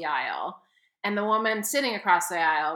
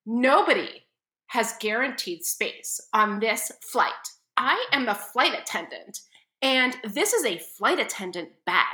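haughty flight attendant; 3 semitones higher than usual. Retold or imitated. Flight attendant lecturing passenger.

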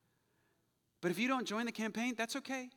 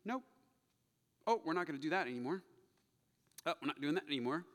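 calm, in control; 4 semitones lower, 4 dB quieter, much faster than usual. Acted. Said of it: "He just comes in".

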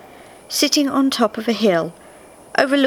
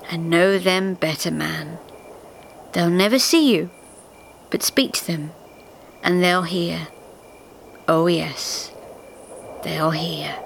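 put-on unhurried, knowing old timekeeper; lightly voiced old Father Time; 4 semitones lower than usual. A narrator's reading. Father Time reassuring the spirit, lightly voiced wise old man.

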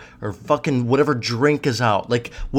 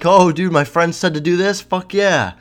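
mock excited; 6 semitones higher, 5 dB louder than usual. Mocks naive stock-buying friend.

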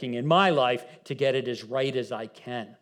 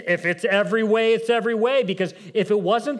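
emphatic preaching; 7 semitones higher, 7 dB louder than usual. Real, not acted.

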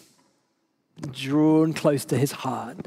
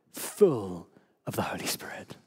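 sudden whisper; 7 semitones lower, 7 dB quieter than usual. Real, not acted. Preacher drops to whisper.

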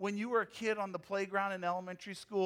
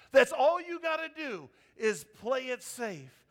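"That's" punched higher and louder, mock advice; louder ironic repeat; 5 semitones higher, 6 dB louder than usual. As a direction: raise the voice on "That's all you gotta do is play it safe".

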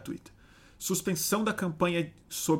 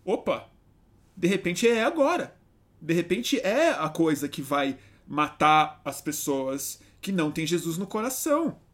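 excited evangelical; 2 semitones higher, 4 dB louder than usual. Retold or imitated. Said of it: "gente evangélica que tá vendo isso e falando".

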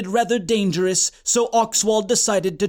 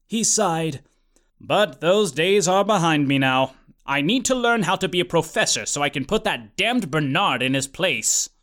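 dry, lowered goofy hero voice; lower character voice; 3 semitones lower than usual. Acted. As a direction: talk it as a dim, earnest hero. Oxwald's character voice.

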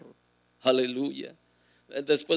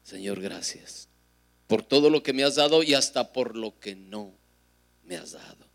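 heartfelt thanks; 2 semitones lower than usual. Shown as a demonstration. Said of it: "Si usted puede decirle".

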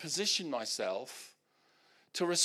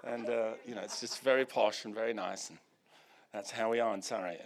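put-on posh BBC accent; 5 semitones lower than usual. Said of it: "It's very B B C".

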